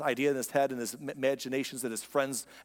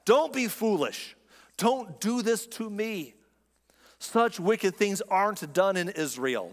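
pleading; 4 semitones higher, slower than usual. Retold or imitated. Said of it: "she cried".

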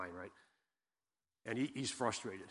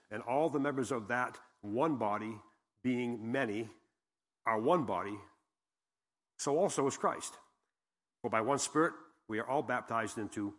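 measured, emphatic Bible reading; scripture reading; 3 dB louder than usual. Acted. Preacher reading verse twelve to the congregation, measured and emphatic. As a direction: read it out with weighted key phrases and pauses.

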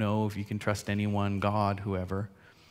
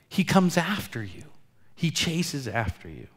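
whisper; 3 semitones higher than usual. Real, not acted. Pastor drops to a hushed line.

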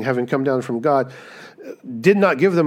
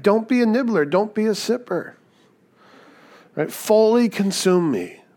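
higher, earnest urging as Jesus; urging plea; 7 semitones higher than usual. Retold or imitated. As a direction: coax them to go all in, higher. Preacher voices Jesus urging.

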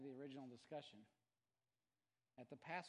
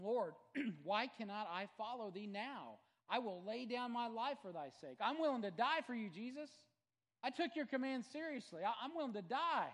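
much higher and louder, impassioned; Peter's vow, shouted; 8 semitones higher, 11 dB louder than usual. A narrator's reading. Peter vows to die for Jesus, impassioned shout. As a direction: cry out your loyalty. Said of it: "Peter said unto him".

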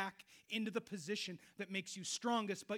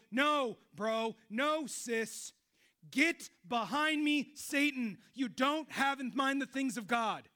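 louder, higher, slow stern rebuke; stern Jesus; 6 semitones higher, 10 dB louder, much slower than usual. Retold or imitated. Jesus rebuking a believer seeking comfort, stern voice. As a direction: rebuke with weight, slowly. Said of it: "when he might go".

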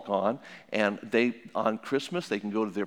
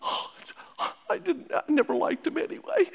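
high breathy mock sympathy; exaggerated motherly outrage; mock consoling parent. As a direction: side with her, hammed up. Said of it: "and you say".

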